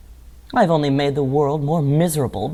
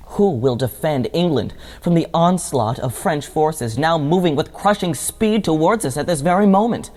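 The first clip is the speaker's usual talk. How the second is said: urgent plea climbing steadily higher; theatrical alarm; 4 semitones higher than usual. Acted. Crying out for England's defence against French forces, theatrical alarm. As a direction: build the alarm up to a high-pitched final question.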